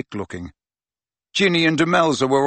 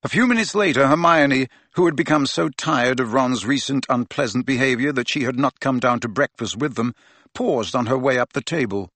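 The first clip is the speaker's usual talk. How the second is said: ordinary delivery, nothing marked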